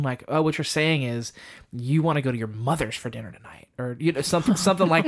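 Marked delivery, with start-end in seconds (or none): 0.3-3.7 lightly mock-sarcastic repeat-back; a hint of passive-aggressive sarcasm; mild sarcastic tone. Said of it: "like, a sarcastic tone".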